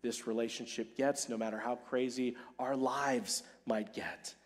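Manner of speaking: soft, hushed promise to a wife, fading very low; tender vow. Acted. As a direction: hold her hand and promise it quietly. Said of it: "and say to her".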